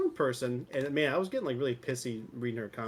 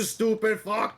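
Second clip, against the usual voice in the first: loud, drawn-out angry yelling; aggressive mock outburst; 8 semitones higher, 5 dB louder, slower than usual. Streamer rants at a viewer for no reason, mock aggressive. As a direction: lay into them with hammed-up aggression. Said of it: "You need to relax".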